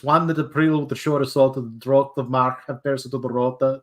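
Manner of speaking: lightly voiced Middle English, every letter sounded; Middle English recitation. Shown as a demonstration. Reciting Chaucer's opening for friends in a light Middle English accent. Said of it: "pretty close to the accent".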